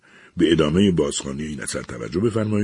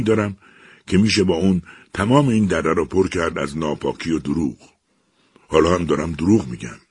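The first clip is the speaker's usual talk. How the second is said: louder, boastful evil machine; menacing machine; 2 semitones higher, 4 dB louder than usual. Acted. The evil machine boasts to Eliza, loud and gloating. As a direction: gloat like a monster confessing its sins.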